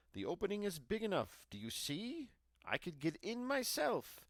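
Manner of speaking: high, loud, fast witch; a high impatient witch showing the girl the oven. A narrator's reading. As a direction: snap at her impatiently, high.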